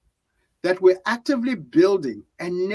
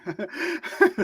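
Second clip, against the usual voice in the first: breathless laugh; 8 semitones higher than usual. Real, not acted. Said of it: "sorry, I lost my breath there".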